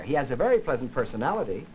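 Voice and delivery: PERSONALITY tipped slightly upward at the end, unfinished; slight final rise. Shown as a demonstration. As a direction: leave "personality" hanging on a small rise. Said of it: "allow my voice to rise slightly".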